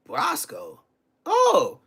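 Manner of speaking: high, quick surprised mutter to himself. Retold or imitated. To himself on the call, quick high surprise. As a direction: caught off guard, then eager. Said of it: "I said to myself".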